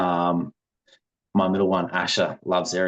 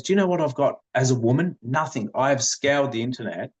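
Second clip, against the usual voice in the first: imitating a wife's complaint, pitched slightly up; mild mock indignation; retold upset wife; 4 semitones higher than usual. Wife telling husband she has nothing as a woman, mildly upset retelling. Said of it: "she got really upset".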